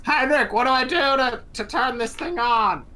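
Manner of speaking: high, loud plea for help; pleading. Acted. Player asks NPC for help.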